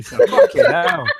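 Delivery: breathy exasperated hiss of a curse; a breathless, slow exasperated curse; whispered exclamation. Real, not acted. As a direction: gasp it out in disbelief.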